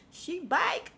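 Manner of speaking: She back said high and sing-song; teasing high echo of She back; mocking echo. Shown as a demonstration. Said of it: "she feel like she back".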